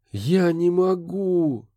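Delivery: he can't, and it hurts; moaning. A narrator's reading. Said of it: "простонал Курт".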